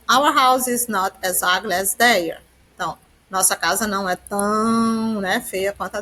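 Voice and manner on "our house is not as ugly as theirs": slow, careful English for learners; teacher reading an English example slowly to students; slow example sentence. Shown as a demonstration. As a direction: spell it out word by word for the class.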